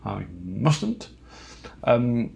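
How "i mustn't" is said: laughing at himself, mustn't said with a chuckle. Real, not acted. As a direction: repeat I mustn't while laughing.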